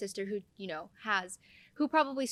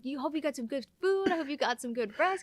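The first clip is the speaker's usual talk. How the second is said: high, gushing, laughing mock praise; gushing sisters; 7 semitones higher, 5 dB louder than usual. Sisters cheering her on about saving lives, high and gushing. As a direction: gush over her like proud sisters. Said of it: "they're like".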